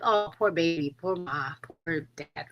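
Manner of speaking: sympathetic. Acted. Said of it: "how would you react to them".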